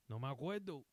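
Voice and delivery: put-on soft, hurt old man after a long silence; hurtful. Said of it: "the most hurtful, like".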